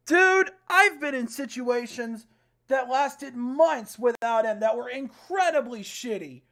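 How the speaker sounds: loud, slow lecturing; angry rant. Real, not acted. Player lecturing his character about hard times. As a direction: lay into him.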